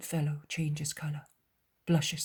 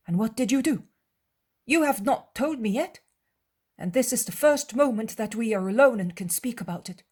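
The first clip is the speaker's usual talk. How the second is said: higher, eager, prying voice of a disciple; Judas voice; 4 semitones higher, 5 dB louder than usual. Acted. Judas slyly questioning his master alone, higher and eager. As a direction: probe the master sweetly while others sing.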